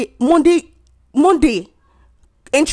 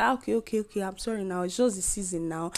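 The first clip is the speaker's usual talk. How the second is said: soft, giving-up okay okay, trailing quieter; resigned mock apology; 9 dB quieter than usual. To the lash lady over the price, quiet resigned apology. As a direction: back down with a sigh in the voice.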